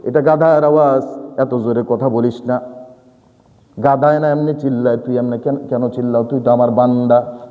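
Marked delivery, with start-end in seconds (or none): 1.4-7.4 gentle correction. Acted. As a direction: correct him tenderly, like a father.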